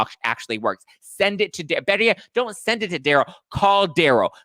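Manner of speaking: high, loud sassy telling-off; ranting at a cast member in a mock angry voice; mock furious rant. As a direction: tear into her like a fed-up friend. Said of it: "It's like".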